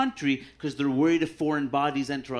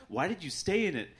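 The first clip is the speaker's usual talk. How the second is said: ordinary talk, nothing marked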